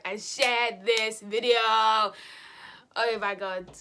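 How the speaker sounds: very slow dragged outro; drawn out. Real, not acted. Ending the vlog, words dragged out slowly. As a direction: stretch the words lazily.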